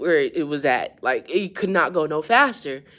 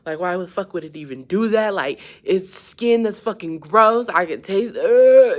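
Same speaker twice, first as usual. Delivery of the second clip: grossed out, getting louder until nearly shouting; disgusted rant; 2 semitones higher, 6 dB louder than usual. Retold or imitated. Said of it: "I was like".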